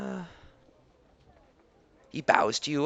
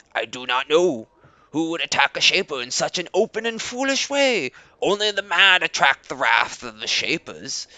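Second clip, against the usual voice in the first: a touch lower and louder, proud tribal leader; Leader Koba, proud; 7 semitones lower, 3 dB louder than usual. Acted. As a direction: greet guests with stiff pride. Koba speaks as NPC.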